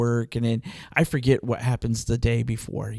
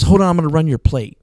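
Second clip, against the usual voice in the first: angry cop; 2 semitones higher, 6 dB louder, faster than usual. Retold or imitated. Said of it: "and he's angry".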